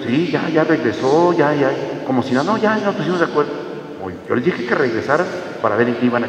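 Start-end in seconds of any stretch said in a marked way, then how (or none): 0.0-3.5 breezy couple. Acted. Couple answering priest, acted.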